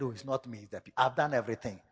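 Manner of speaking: a hint of a sheepish Saul; Saul's excuse. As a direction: mumble the excuse. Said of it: "He said".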